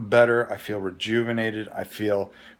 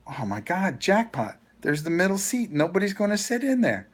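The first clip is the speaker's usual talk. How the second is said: excited glee; 8 semitones higher than usual. Retold or imitated. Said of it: "and I go".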